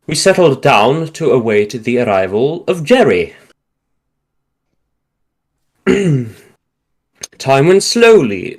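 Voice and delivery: measured war-memoir reading with deliberate phrase breaks; story narration. A narrator's reading. Trooper recounting a night at an outpost, measured narration. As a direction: read it out like an old soldier's account.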